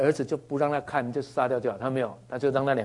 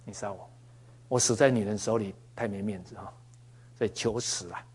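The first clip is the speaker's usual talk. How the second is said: mock despairing plea; 3 semitones lower, 8 dB quieter than usual. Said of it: "他跟耶和华说".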